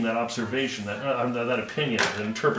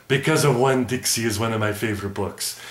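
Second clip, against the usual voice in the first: puppet voice. Acted. Puppet Math Mud speaks.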